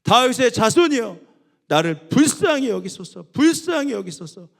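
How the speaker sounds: loud, high pleading cry. Acted. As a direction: shout for mercy. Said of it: "오히려 더 크게 소리 지릅니다".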